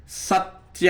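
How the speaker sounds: drawn-out teaching delivery; slow key term. Real, not acted. Teacher giving the second principle to students, drawn out. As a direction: stretch the term out for learners.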